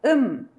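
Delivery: slow, drawn-out "um" with closed lips; Korean syllable um. Shown as a demonstration. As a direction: say "um" clearly and slowly. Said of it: "¿Cómo va a sonar?".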